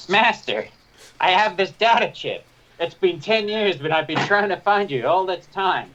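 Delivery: high eager droid voice. Acted. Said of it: "drop the voice".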